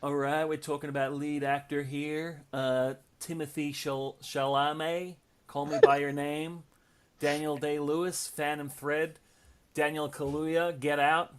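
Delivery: lightly voiced laid-back film star; loose, understated actor impersonation, slow in places; a hint of a celebrity drawl; Matthew McConaughey impersonation. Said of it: "it was Matthew McConaughey".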